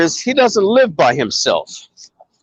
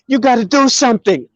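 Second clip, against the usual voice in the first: mildly frantic retold plea, higher; hysterical caller; 5 semitones higher, faster than usual. Friend begs for help over Antonio's danger, mock-hysterical. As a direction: imitate a panicked caller pressing for action. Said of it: "He is hysterical".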